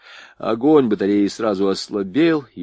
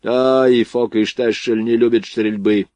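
livened up; 3 semitones higher, 4 dB louder than usual. Acted. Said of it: "оживился генерал".

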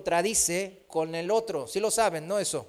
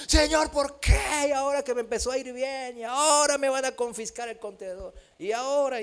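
mock complaint to God; 4 semitones higher than usual. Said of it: "me enojé mucho también con Dios".

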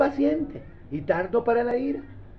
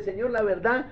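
higher, slow, drawn-out pleading; sincere plea; 4 semitones higher, slower than usual. Acted. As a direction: open your heart and beg. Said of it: "se pone sincero y dice".

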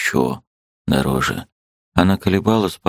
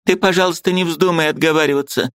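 put-on high, indignant old woman's voice; angry old aunt; 11 semitones higher, faster than usual. Aunt bursting in to scold her niece, high and indignant.

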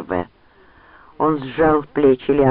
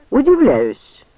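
high-pitched, louder smiling remark; 9 semitones higher, 5 dB louder, slower than usual. A narrator's reading. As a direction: say it through a smile, voice lifted. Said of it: "улыбнулся Мандрагон". (с улыбкой, высоко и громче)

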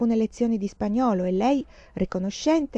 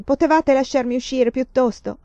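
angry shout; 4 semitones higher, 4 dB louder than usual. Acted. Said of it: "Vinca le gridò avventandosi".

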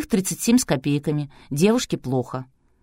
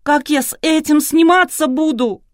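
high, loud wail; 10 semitones higher, 6 dB louder than usual. A narrator's reading. Girl wails about filming with a rash, loud. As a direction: wail in despair. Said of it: "снова завопила".

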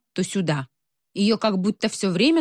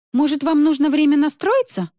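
voiced host; 9 semitones higher, 6 dB louder than usual. A narrator's reading. Host coaxes nervous speaker.

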